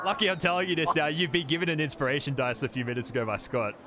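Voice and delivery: hurried excited aside. Real, not acted. GM hurries to add forgotten news.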